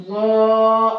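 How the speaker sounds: غا loud, heavy and full-mouthed; full-mouthed ghaa. Shown as a demonstration. Teacher showing students a heavy غا. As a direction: fill the mouth and say غا thick. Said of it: "اس کو بھی ہم منہ بھر کے پڑھیں گے".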